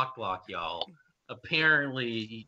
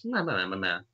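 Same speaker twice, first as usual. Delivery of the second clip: put-on girl voice; 3 semitones lower, faster than usual. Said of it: "that's not a girl voice".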